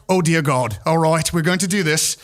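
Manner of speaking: mild imitation of a British friend; light British accent, bracing himself. British friend agrees to help hide people, imitated British accent. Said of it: "my friend who's British is there".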